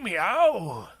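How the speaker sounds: a weak, plain little meow; pitiful meow. Shown as a demonstration. Tomcat trying his first begging meow. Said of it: "Try to sound pitiful".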